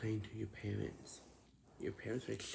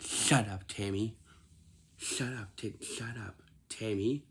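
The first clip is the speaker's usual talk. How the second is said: mad scolding; 4 dB louder than usual. Retold or imitated. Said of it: "grandma got really mad".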